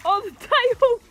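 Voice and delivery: laughing. Real, not acted. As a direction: laugh through the words. Laughing at breaking the tail.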